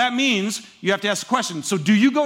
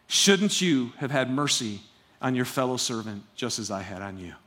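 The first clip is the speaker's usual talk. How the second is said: understated stern rebuke; stern master; 5 semitones lower than usual. Acted. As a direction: rebuke that sinks to a hush. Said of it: "then he said this".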